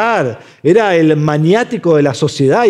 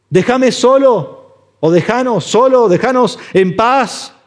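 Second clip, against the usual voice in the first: mock demon's cry; 5 semitones higher than usual. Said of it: "comienza a gritar con una voz prepotente".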